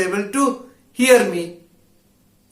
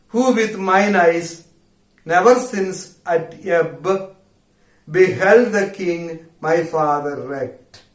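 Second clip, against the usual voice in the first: dramatic recitation. Acted. Teacher recites Ferdinand's speech.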